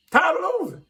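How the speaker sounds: high, loud, pained outburst; a fed-up fan breaking into a high, loud wail; anguished cry. Real, not acted. Fan venting frustration.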